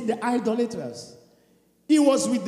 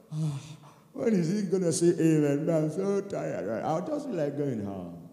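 lower, softer weary grumble; bored sigh; 4 semitones lower, 6 dB quieter than usual. Acted. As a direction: sound drained and impatient. Mocking bored, tired worshipper.

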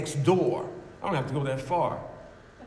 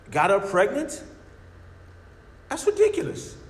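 scoffing atheist. Acted. Preacher voicing a scoffing atheist.

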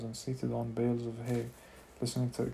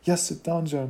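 mocking echo; 5 semitones higher, 7 dB louder than usual. A narrator's reading. Mace mocks the order.

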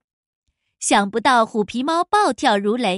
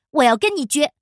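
cut off mid word; 2 semitones higher, 3 dB louder, faster than usual. Acted. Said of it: "故意打断了他的话".

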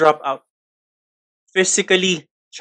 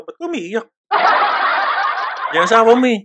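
teasing friend; 4 semitones higher than usual. Retold or imitated. Friend mocks a crying man.

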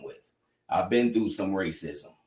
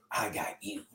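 put-on a faint, strained old man's voice, much softer; like he can hardly get the words out, much softer; barely able to talk; 13 dB quieter than usual. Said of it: "barely could talk".

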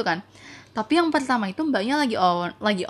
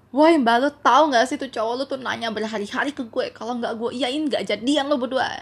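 raised, indignant rant in jest; mock telling-off; 3 semitones higher, 4 dB louder than usual. Imagined retort to the jealous girlfriend, mock indignant. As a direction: rant at her as if fed up.

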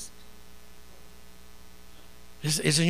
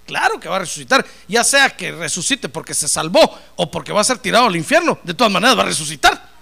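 louder, pushing every phrase; insistent loud retort; 6 dB louder than usual. Acted. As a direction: argue back like you know it all. Marta argues back, know-it-all.

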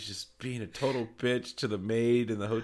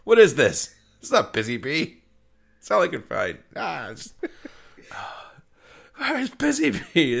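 upset dog owner; 6 semitones higher, 5 dB louder than usual. Retold or imitated. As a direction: whine for the lost toy. Quoting upset owner again.

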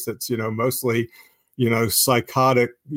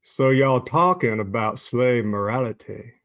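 Southern preacher voice. Acted. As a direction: read it like a Southern preacher at the pulpit, understated. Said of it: "can I read that in a Southern preacher voice".

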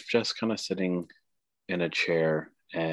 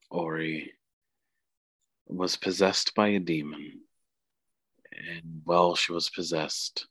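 grandmother spirit, earnest. Acted.

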